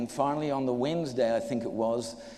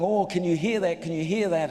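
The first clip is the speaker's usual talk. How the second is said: excited onlookers; 3 semitones higher, 3 dB louder than usual. Retold or imitated. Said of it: "the guys around me all excited".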